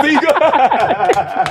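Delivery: laughing through the words; breaking into laughter. Real, not acted. Laughing at friend stealing point.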